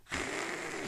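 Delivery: ordinary delivery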